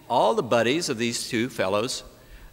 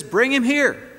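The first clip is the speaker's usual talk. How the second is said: loud, high angry order; master's furious summons; angry command; 11 semitones higher, 7 dB louder than usual. Acted. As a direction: summon him in fury.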